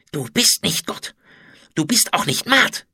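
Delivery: high, strained spiteful defiance; hate-filled hiss. A narrator's reading. Kneeling food taster defies the pharaoh, hateful hiss. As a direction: spit it at the queen with hatred. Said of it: "zischte er voller Hass".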